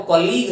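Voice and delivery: कलीग said clearly as kə-leeg; correct colleague. Shown as a demonstration. Teacher models कलीग for students, clearly. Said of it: "इसकी pronunciation है वो कलीग है".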